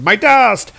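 alarmed cry, high and loud; Utgard Loki. Acted. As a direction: cry out in cartoon villain alarm. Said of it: "looks very alarmed here and says".

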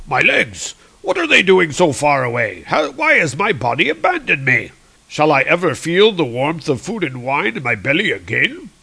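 lightly voiced mock-tragic lament; hammed-up wail for lost legs; lamenting Volstagg. Severed head mourns its distant body, lightly mock-tragic. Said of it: "It's like".

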